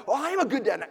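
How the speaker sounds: high, loud indignant insistence; defensive retort. Retold or imitated. Husband defending himself to his wife, loud indignant insistence. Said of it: "get defensive".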